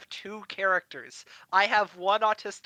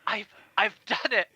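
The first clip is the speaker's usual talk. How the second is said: lightly acted breathless triumph; mock winded, halting announcement; out of breath; 3 semitones higher than usual. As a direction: gasp it out after running back. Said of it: "you know, out of breath".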